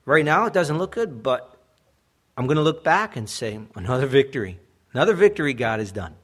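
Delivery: loud preaching declaration. Real, not acted. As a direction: proclaim it with force. Preacher rising to emphatic claim.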